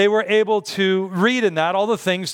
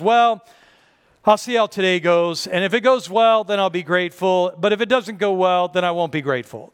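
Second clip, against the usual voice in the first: grudging attitude. Retold or imitated. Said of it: "The natural thing to do is to say this".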